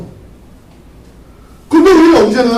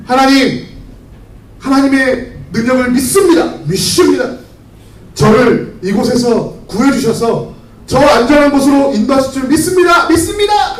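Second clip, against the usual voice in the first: raised, rising plea to God that builds to a high cry; fervent pleading prayer; 4 semitones higher than usual. Acted. Stranded believer begs God from the rooftop, fervent plea. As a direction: pray hard, as if the water is still rising.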